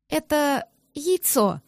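slow, doleful confession; mournful admission. A narrator's reading. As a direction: own up with a sorry face. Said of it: "со скорбной миной произнесла я".

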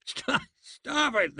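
high, slow plea while laughing; can barely speak for laughing; begging through laughter. Acted. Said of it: "they begged".

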